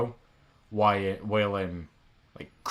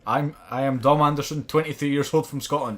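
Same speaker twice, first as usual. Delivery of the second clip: louder, higher declaration; mock public confession; 5 semitones higher, 6 dB louder than usual. Embracing his fear on the internet, mock-proud declaration. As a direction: announce yourself boldly to the whole internet. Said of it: "fuck it, I'm gonna embrace it".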